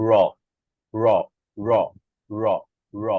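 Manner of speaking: র as ড়, tongue flung down from the palate; spaced drill of a curled-back র flap; retroflex flap R. Shown as a demonstration. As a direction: repeat র with the underside of the tongue striking. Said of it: "তখন জিভ উপর থেকে নিচে নেমে আসে".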